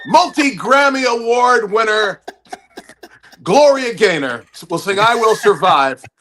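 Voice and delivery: mock show announcer. Comic introduces a Grammy winner, mock announcer. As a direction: play an event announcer, drawing out the billing.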